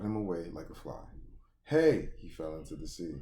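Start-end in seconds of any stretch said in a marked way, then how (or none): 1.6-2.1 high, loud hey; mock crew shout. Crew member yells as Ace falls, mock shout. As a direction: call out sharply.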